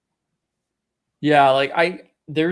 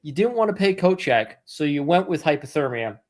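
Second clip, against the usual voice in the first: sarcastic; 3 semitones higher than usual. Retold or imitated. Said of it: "and you're like".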